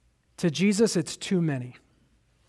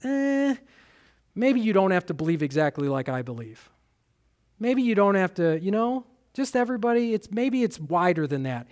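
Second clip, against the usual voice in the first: tempted casual shrug; 5 dB quieter than usual. Pretend. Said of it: "I am the most tempted to say".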